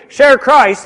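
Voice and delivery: "Share" punched loud and high; emphatic "Share Christ" command; stress on Share. Shown as a demonstration. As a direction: hit "Share" hard then drop on "Christ". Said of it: "You're just adding the emphasis".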